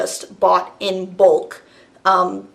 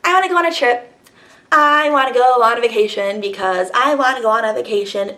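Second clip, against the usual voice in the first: whiny client; 3 semitones higher than usual. Retold or imitated. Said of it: "things are".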